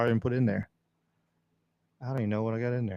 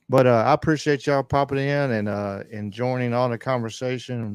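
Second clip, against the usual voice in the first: louder announcer-style radio voice; 6 dB louder than usual. Shown as a demonstration. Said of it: "My radio voice".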